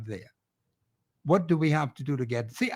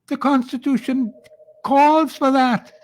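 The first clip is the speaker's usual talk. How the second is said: emphatic; 9 semitones higher, 6 dB louder than usual. Real, not acted. Host stresses constitution on air.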